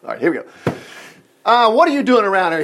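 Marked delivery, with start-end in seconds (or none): 1.4-2.6 higher, mildly indignant challenge; demanding older brother. Acted. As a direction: demand an answer, lightly acted. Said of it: "he demanded".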